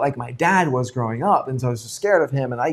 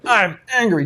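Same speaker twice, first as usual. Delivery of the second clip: wrong way to say it; 5 semitones higher than usual. Shown as a demonstration. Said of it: "Don't be like".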